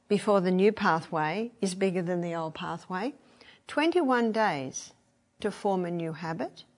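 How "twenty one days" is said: slow emphasis. Shown as a demonstration. Emphasising the number.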